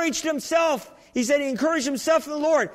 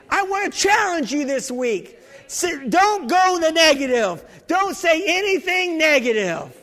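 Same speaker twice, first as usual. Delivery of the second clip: preaching challenge; 5 semitones higher, 4 dB louder than usual. Real, not acted.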